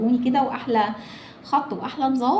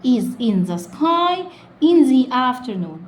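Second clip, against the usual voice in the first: slow repeat; much slower than usual. Shown as a demonstration. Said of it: "يلا نقولها تاني".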